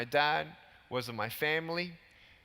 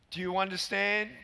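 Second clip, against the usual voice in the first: ordinary delivery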